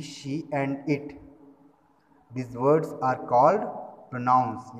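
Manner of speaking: slow, drawn-out dictation reading. Acted. Teacher dictating the definition slowly to her class. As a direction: read it out slowly so students can write.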